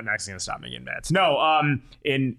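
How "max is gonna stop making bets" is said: much lower and softer mumble; quiet mumble. Shown as a demonstration. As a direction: mutter it under your breath. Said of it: "There we go".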